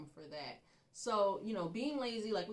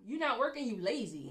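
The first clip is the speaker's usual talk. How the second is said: higher, louder mock scolding; nagging parent; 4 semitones higher, 5 dB louder than usual. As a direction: lay down the law like an older parent. Voices older parents nagging their children.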